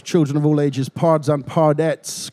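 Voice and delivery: slow, drawn-out showman's welcome; grand entrance announcement. Pretend. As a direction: announce it like a ringmaster. Podcast host's opening fanfare.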